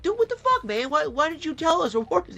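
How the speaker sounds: very high, loud outraged disbelief; shocked cop protesting to his colleague; new cop, caught off guard, protests high and loud; indignant surprise. Retold or imitated. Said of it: "they'd be like".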